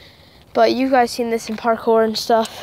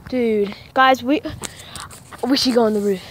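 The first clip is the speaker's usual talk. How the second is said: nervous night vlog whisper. Real, not acted. Sneaking out at 3 AM.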